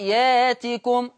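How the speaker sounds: ياتكم with a long aa and no glottal stop; hamza dropped. Shown as a demonstration. Teacher demonstrating Warsh's swapped hamza. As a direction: say ياتكم slowly as yaa-tikum. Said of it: "بإبدال الهمز الساكن".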